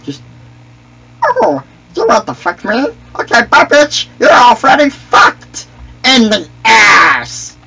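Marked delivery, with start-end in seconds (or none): 1.2-7.6 Misa voice. Acted. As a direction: crow over the kill in Misa's voice. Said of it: "I love doing that fucking voice".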